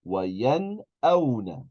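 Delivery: وَيَنْأَوْنَ with a clear, unchanged n before the hamza; full noon. Shown as a demonstration. Teacher shows the class a normal noon, وَيَنْأَوْنَ with a full clear n. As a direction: sound the n fully in وَيَنْأَوْنَ, then the glottal stop. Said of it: "pronounce that noon totally normal".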